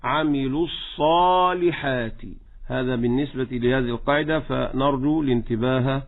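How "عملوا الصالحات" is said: slow الصالحات with a full emphatic ص; heavy saad. Shown as a demonstration. Teacher models the verse, heavy saad in الصالحات. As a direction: give الصالحات a dark, heavy ص straight after عملوا. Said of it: "وتفخم الصاد".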